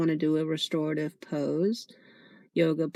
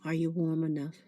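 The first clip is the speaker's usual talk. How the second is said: guided meditation. Acted. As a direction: gently guide them into noticing the breath.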